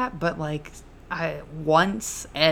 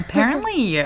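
loud playful jab; teasing; 6 semitones higher, 7 dB louder than usual. Real, not acted. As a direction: tease her, mock-accusing. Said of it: "I'm just kidding".

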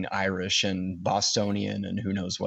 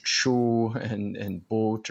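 dragged-out O's in a Northern accent; much slower than usual. Shown as a demonstration. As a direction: stretch the O in "boat" like someone from up north. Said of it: "dragging out their O's".

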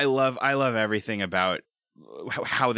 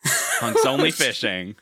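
laughing; 3 dB louder, slower than usual. Real, not acted. Laughing repeat of joke.

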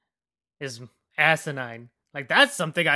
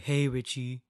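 lightly imitated politician's voice; a hint of a famous politician's delivery; Donald Trump; 2 semitones lower, 3 dB quieter than usual. Villain trying to scare Richie, lightly mimicking a politician. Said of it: "talking like Donald Trump".

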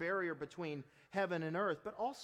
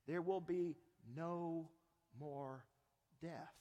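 slow fade; 3 semitones lower, 5 dB quieter, slower than usual. Real, not acted. Slow, dying away on promise.

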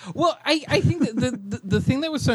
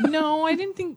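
higher, disbelieving reply; high incredulous no; 12 semitones higher than usual. Retold or imitated. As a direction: recoil in disbelief. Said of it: "I was like".

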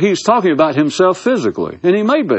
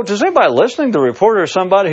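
sarcastic theatrical; 7 semitones higher, much faster than usual. Acted. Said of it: "I can be theatrical, sarcastic".

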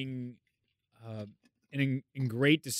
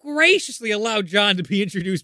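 laughing grand introduction; 8 semitones higher, 8 dB louder than usual. Acted. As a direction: giggle through the big intro.

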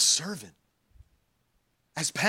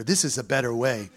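a hint of a cold low bounty hunter; 3 semitones lower than usual. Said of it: "I sound like the bounty hunter".

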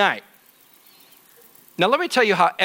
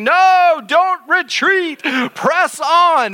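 frantic urging; 9 semitones higher, 4 dB louder, much slower than usual. Retold or imitated. Brother urging fleeing twins on.

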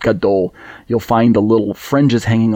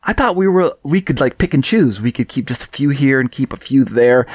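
sarcastic; 2 semitones higher than usual. Pretend. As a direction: play it as fake shock, with sarcasm. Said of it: "You can hear the, the sarcasm in my voice".

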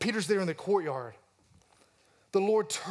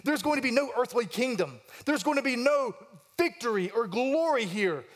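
dismayed inner voice; 5 semitones higher than usual. Retold or imitated. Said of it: "And Peter thinks".

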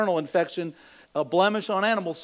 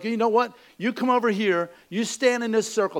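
higher-pitched mock angry orders; furious bikers; 4 semitones higher than usual. Biker ordering the driver into a circle, mock furious. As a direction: order him about in playful outrage. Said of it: "just furious at him".

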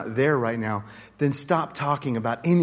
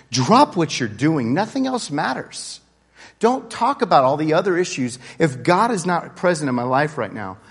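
louder, higher, emphatic plea; urgent exhortation; 5 semitones higher, 6 dB louder than usual. Real, not acted. Preacher urging people to put God first, urgent exhortation. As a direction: punch out each command like an urgent warning.

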